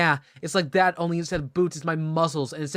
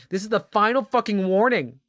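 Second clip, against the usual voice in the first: higher-pitched angry warning; hammed-up threat; 5 semitones higher, 3 dB louder than usual. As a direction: lay down an over-the-top final warning. Threat in dramatic reading.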